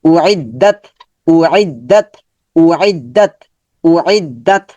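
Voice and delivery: short উইদ্দাত, nothing elongated; quick, unstretched vowels. Shown as a demonstration. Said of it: "তার মানে দ্রুত করতে হবে".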